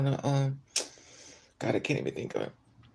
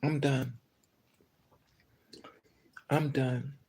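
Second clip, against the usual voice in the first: tired resignation; 6 dB quieter, slower than usual. Real, not acted. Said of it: "I have officially checked out".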